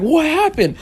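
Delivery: gym teacher. Retold or imitated. Gym teacher voiced in story.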